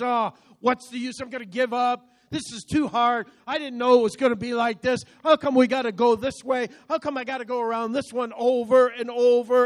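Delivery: mock exasperated griping; discouraged complaining. Preacher voices people discouraged midway through something, exasperated complaining. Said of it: "we get discouraged".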